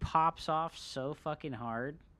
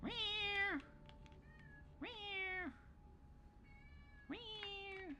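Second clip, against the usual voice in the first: high meows fading ever softer; cat meow; 13 semitones higher, 3 dB quieter, much slower than usual. Retold or imitated. Streamer voicing his cat, high meows fading out. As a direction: mew high and let each one die away. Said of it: "She's like".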